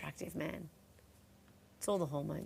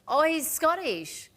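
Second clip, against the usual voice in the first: high, louder and slow "oh, he's Scottish"; surprised realisation; 8 semitones higher, 5 dB louder, slower than usual. Real, not acted. Host realising on air she got him wrong, surprised. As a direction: catch yourself in dismay.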